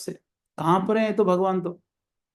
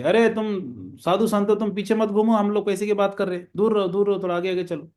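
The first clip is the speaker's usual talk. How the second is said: higher-pitched mock telling-off; retold scolding; 5 semitones higher than usual. Merchant scolds Haripal to stop following behind, mild retold scolding. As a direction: shoo him ahead with a mild scolding. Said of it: "Haripal जी को डांट रहे थे".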